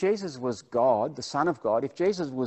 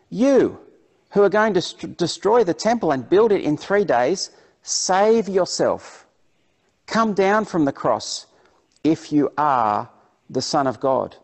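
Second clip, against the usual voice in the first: raised, emphatic mock challenge; hurling insults; 6 semitones higher, 8 dB louder than usual. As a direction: taunt like a heckling crowd, stretching key words. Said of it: "hurled insults at him, shaking their heads".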